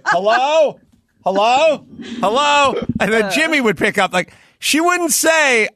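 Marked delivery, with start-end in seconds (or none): 0.0-2.7 high, repeated hellos into a silent line; mock a caller left hanging, pitched way up; calling into phone. Caller left waiting after asking for a friend, high puzzled calling.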